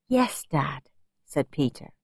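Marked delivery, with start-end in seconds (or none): 0.1-0.9 small unvoiced whisper. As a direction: breathe it out meekly. Son meekly answers stern dad.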